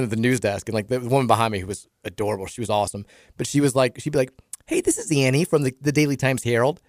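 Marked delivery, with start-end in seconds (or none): 4.6-6.8 imitating a Fargo accent, lifted high at the end. Newsdesk coworker phoning someone with a question, Fargo accent. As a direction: do a Midwestern newsroom caller with a Fargo accent. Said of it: "It sounds like Fargo".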